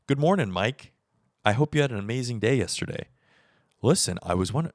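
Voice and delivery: hint of fake politeness to a friend; mock formal text. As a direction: read it like a stiff business message. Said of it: "imagine me texting my homie".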